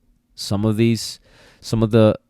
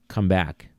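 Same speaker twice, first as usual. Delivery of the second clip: sudden firm recall; 4 dB quieter than usual. Shown as a demonstration. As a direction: snap the command with sudden pressure.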